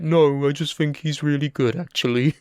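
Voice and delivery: lightly put-on voice for a quote; a hint of an impression of a friend; imitated co-host. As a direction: quote him in a slight mock character voice. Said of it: "He doesn't talk like that".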